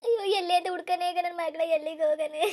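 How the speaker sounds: wailing, crying through the words; a despairing cry of where to search; crying lament. Acted. Mother wailing, not knowing where to search for her daughter.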